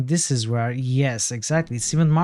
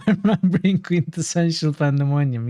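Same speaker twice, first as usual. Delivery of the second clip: laughing; 3 semitones higher than usual. Real, not acted. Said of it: "Yes, quintessential pandemonium".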